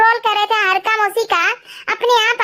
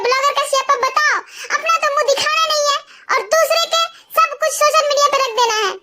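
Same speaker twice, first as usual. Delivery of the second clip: lightly voiced shrill scolding aunt, higher and quicker; mock angry aunt; 4 semitones higher, faster than usual. Vlogger imitating Halka Mausi berating her, mild mock shout. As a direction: scold like a furious aunt, half-hammed. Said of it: "कह रही थी".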